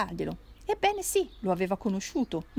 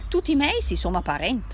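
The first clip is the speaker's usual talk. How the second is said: put-on Turinese drunk cousin; 4 semitones higher, 6 dB louder than usual. Drunk cousin insists in dialect.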